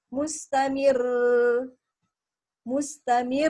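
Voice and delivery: "Mustamir" with a long double-rolled r; doubled R. Shown as a demonstration. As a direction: stretch the trill in "Mustamir". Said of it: "Nah, begitu harus".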